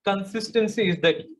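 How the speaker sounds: each word spaced out for students to write; slow dictation. Shown as a demonstration. Trainer to students, spelling out the slogan slowly. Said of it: "slogan dictated slowly".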